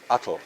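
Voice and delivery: Atl as AH-tul with a voiced L; deliberate mispronunciation. Shown as a demonstration. Teacher leading class in the wrong way, deliberate mispronunciation. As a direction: add a vowel before the L in Atl. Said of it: "I'm gonna mispronounce".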